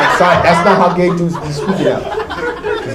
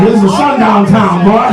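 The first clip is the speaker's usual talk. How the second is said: mock sheriff; 5 semitones higher, 4 dB louder than usual. Acted racist sheriff line.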